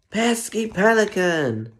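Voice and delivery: slow, high, loud telling-off; angry howl. A narrator's reading. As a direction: growl it out at the bird, dragged out. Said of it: "howled Bob".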